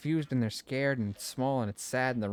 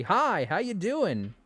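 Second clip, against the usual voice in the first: nervous greeting; 5 semitones higher, slower than usual. Retold or imitated. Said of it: "nervous to just talk to new people and say".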